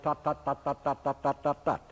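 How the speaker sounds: "ta" each given the same heavy separated weight; mock example of bad articulation; wrong heavy ta. Shown as a demonstration. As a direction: demo the despised clunky "ta, ta, ta". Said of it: "To be avoided ... despised ta".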